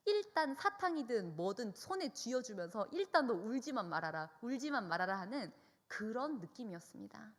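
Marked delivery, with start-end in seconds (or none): 0.1-2.9 retold panic, louder and higher; frantic parent. 2.9-5.2 louder, urgent hushing plea; frantic parent. Retold or imitated. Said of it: "부모님이 숨이 넘어갈 것 같아서".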